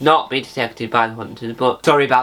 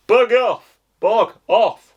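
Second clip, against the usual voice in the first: mock chase shout; 9 semitones higher, 4 dB louder, slower than usual. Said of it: "would say".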